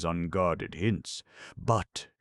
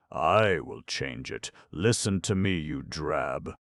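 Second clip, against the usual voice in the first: threatening rage. Acted. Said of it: "exasperated beyond all bounds".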